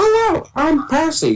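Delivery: very high cartoon voice at top of range. Showing how they voice the characters, in a fully high Percy voice. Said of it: "Percy is like fully high".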